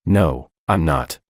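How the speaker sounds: slow, pained denial; crying out. A narrator's reading. Sister accused of cruelty, crying out slowly. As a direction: protest through distress. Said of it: "crying out".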